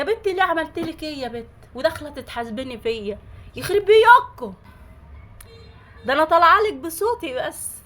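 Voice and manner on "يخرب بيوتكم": higher and louder exasperated curse; angry curse. Real, not acted. Cursing the rude commenters, loud and exasperated.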